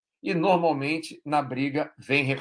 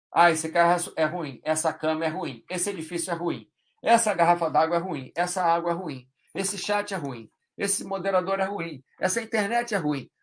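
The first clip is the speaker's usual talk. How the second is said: mock complaining list; 3 semitones higher than usual. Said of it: "Aí sim é reclamação".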